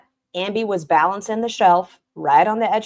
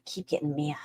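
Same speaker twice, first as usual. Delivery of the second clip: soft unvoiced taunt, much softer; teasing whisper; 9 dB quieter than usual. Real, not acted. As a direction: whisper it like egging her on. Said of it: "whispered taunt".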